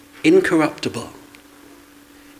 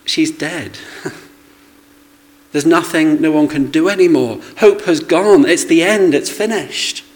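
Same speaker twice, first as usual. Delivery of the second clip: despairing outcry; 3 semitones higher, 4 dB louder than usual. Retold or imitated. Voicing despair of mourners.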